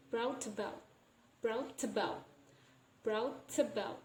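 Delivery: "brought about" joined into a single word; "brought about" said as braw-tabout; linked as one. Shown as a demonstration. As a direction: carry the T of "brought" onto "about". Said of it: "make it become one".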